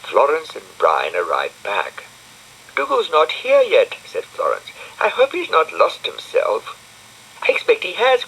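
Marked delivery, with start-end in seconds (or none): 2.7-4.0 put-on high bright little girl voice; high-pitched girl character; Florence's voice. A narrator's reading. 5.0-8.2 raised, lighter voice for the friends; chatty high character voice. A narrator's reading. Florence and Brian voiced high.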